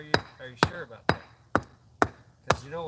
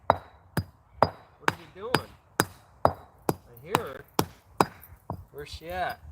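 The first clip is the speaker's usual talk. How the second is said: dog talk; 3 semitones higher, slower than usual. Real, not acted. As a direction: coo it slowly at the dog. Talking sweetly to the dog.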